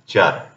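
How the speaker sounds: "चर", a ch sound plus r for the letters TUR. Shown as a demonstration. Teacher showing learners the sound of TUR, "चर" with a ch. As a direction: say "चर" with a clear ch sound. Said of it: "then the sound will be".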